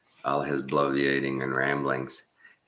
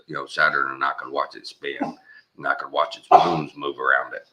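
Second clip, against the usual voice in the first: imitating Alex Jones; faster than usual. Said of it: "he goes".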